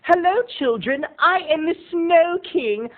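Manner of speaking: hammed-up jolly mall king welcoming children; grand fake-cheerful announcement to the kids; Snow King greeting. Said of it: "what I had to walk around and say was".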